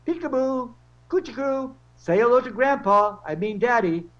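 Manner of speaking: put-on high cooing baby talk.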